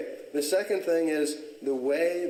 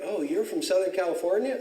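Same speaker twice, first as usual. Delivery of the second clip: imitating girls in a higher-pitched voice; impressed girls; 7 semitones higher than usual. College girls impressed by where he's from, mock-impressed high voice. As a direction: put on a high, wowed question. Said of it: "they would be like".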